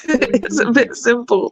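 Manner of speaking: "It's a bit simple." drawn out slowly, stress on "bit", falling; slow emphasis. Shown as a demonstration. Slowly repeating the jab to the American guest. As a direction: spell it out slowly so he gets it.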